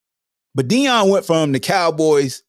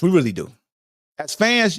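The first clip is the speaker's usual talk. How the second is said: ordinary delivery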